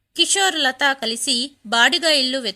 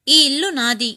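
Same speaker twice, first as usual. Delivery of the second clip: a mother's raised voice, ordering them out; angry shout; 4 dB louder than usual. Acted. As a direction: throw them out of the house, louder. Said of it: "గట్టిగా అరిచింది మీనాక్షి". (గట్టిగా కోపంగా అరుస్తూ)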